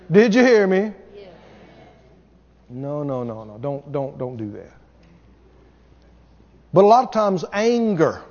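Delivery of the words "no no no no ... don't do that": quiet no no. Acted. Mock quiet scolding aside.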